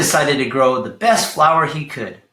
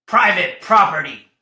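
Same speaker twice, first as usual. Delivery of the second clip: yelled; 3 semitones higher, 3 dB louder than usual. Acted. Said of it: "yelled Hank".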